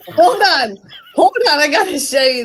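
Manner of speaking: excited loud interruption; loud hold on. Real, not acted. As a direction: shout to stop everyone. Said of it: "excited interruption".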